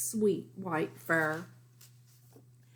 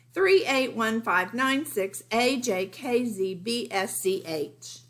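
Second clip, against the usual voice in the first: teasing Lily; 3 semitones higher than usual. Retold or imitated. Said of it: "And Lily down here is saying".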